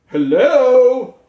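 high, loud goofy voice; a playful silly voice for a speech device. Shown as a demonstration. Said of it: "that's my silly voice".

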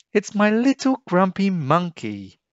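high, loud cooing mother voice; fond mother squealing with joy; doting mum. A narrator's reading. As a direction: gush over her little one. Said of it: "Jim's mum cried".

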